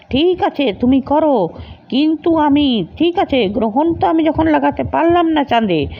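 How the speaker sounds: lightly voiced sorcerer calling on darkness; villain Timiraksha.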